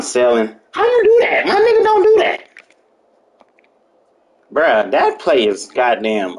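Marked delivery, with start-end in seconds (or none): 0.7-2.4 high, loud disbelief; shocked outcry. Real, not acted. Gamer shouting at his opponent's move. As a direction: yell it like you can't believe it.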